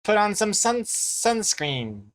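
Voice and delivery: uncertain go at a Kiwi accent; attempted Kiwi accent. Shown as a demonstration. Streamer ending a demo for chat, attempted Kiwi accent. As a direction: finish the improvised line in Kiwi accent. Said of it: "try and do a Kiwi accent".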